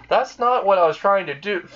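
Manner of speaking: high, embarrassed outburst; flustered protest. Acted. Rias blushing as Issei misunderstands her, flustered. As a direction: protest in a fluster, pitch leaping up. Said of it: "just starts blushing and says".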